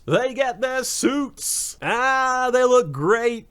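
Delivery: high, drawn-out squeal of delight; thrilled fanboy gushing. Real, not acted. Reviewer seeing the heroes suit up at last, thrilled. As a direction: stretch the words out high, overjoyed.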